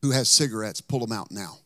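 retold pulpit command; mildly authoritative order, dropping at the end. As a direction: firmly order the congregation, no asking. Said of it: "I commanded. I didn't ask".

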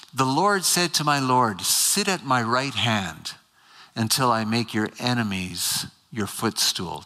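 slow, weighty reading of the verse; lingering reading. Shown as a demonstration. Preacher reads Psalm 110 to the congregation, slowly. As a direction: let each word of the verse sit. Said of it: "Just linger on the first one".

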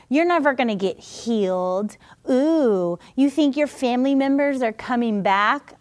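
lightly mocking, nagging doubter; put-on naysayer's needling; little mocking voice. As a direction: taunt with one doubting jab after another. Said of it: "That little mocking voice".

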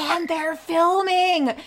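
high, slow, drawn-out announcement; emphatic excited reveal. Real, not acted. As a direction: land the big reveal, stretching each word. Dramatic redo after being prompted.

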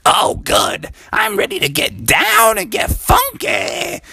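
high, excited frog mom; Mommy Frog. Acted. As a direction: squeal it, raring to dance. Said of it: "And Mommy Frog was like".

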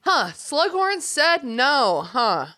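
slow, drawn-out sarcastic disbelief; mock unimpressed Dumbledore.

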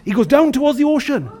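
mildly heightened storytelling. Shown as a demonstration. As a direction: raise the drama of the plunge a touch. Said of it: "it was worse than that".

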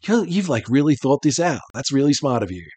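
lightly voiced happy idiot hero; idiot protagonist. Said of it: "It's like".

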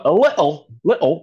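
bad Cockney accent; hammed-up Cockney accent. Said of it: "my bad Cockney accent right there".

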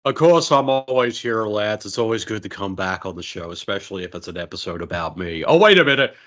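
lightly voiced Nicolas Cage; a hint of Nick Cage swagger; Nicolas Cage impression. Guest plays Nick Cage dropping by the show, light impression. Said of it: "that's a spot on Nick Cage".

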